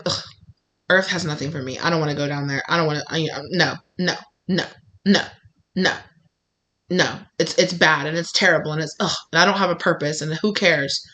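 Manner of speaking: mildly acted weary reluctance; jaded refusal. Voices jaded soul refusing Earth.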